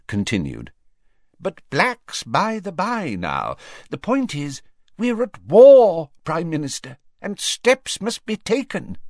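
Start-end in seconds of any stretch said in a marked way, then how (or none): 1.4-9.0 high-pitched, emphatic minister; urgent warning in a raised voice; grave Fudge, urgent. A narrator's reading.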